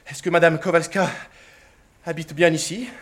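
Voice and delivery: panting after the chase up the stairs; breathless question. Acted. Suitor, breathless from running after the maid. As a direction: ask it winded, catching breath. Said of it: "hors d'haleine".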